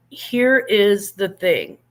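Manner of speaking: quoting Letterkenny again. Retold or imitated. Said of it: "watched Letterkenny knows that reference".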